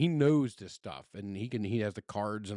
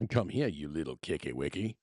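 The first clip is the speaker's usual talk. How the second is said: put-on low drawling Southern accent; 6 semitones lower than usual. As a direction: say it like a Southern sweet-talker. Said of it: "when you say it in a Southern accent".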